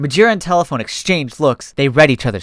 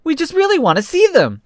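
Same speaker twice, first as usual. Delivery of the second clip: much higher, pleading. Acted. Fox begging the receptionist, much higher. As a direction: beg sweetly.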